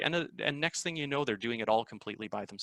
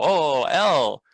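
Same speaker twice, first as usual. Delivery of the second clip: imitating students; 3 semitones higher, 9 dB louder than usual. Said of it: "they go".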